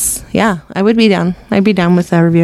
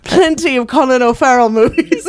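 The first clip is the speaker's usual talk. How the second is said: higher-pitched mock-indignant self-quote; retold indignant boast; 4 semitones higher than usual. Retelling an argument with sister, indignantly boasting. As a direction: insist on it, mock offended. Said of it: "I'm like".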